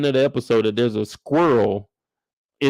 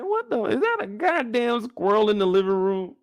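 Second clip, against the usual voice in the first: retold shock; 7 semitones higher than usual. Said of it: "I said".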